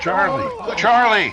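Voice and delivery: frantic calling. Acted. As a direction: cry out for him in horror. Calling out on finding the body.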